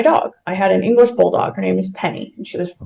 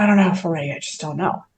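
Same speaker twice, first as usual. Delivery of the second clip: soft, lower reply trailing away; hesitant doubt; 3 semitones lower, 6 dB quieter, faster than usual. Retold or imitated. Wife unsure about a new dog answers husband, hesitant. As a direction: recall a reluctant answer, dropping quieter.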